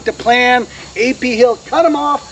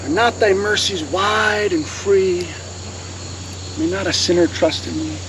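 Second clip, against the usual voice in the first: hymn recitation; 4 semitones lower, 7 dB quieter than usual. Acted. Lecturer recites a hymn verse, solemn recitation.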